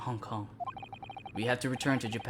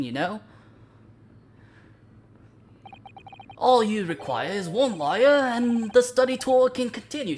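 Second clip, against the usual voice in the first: louder, higher, playfully smug gentleman; eccentric detective; 6 semitones higher, 6 dB louder than usual. Acted. Sholmes teasing the shackled stowaway, loud and smug. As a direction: lord it over them with theatrical glee.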